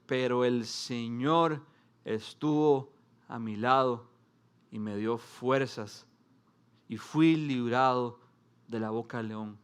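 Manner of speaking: pastor reading the Lord's rescue slowly to the church, calm and tender; slow reverent reading. Shown as a demonstration. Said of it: "Vamos al contraste".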